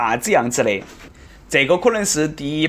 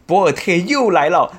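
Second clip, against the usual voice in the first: amazed commentary; 6 semitones higher than usual. Pretend. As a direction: gasp in amazement on air.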